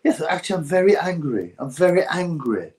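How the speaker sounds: lightly put-on pompous calm voice; a hint of a self-serious trainer; mildly mock earnest repetition; Don Charles impression. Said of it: "he does a really good Don Charles".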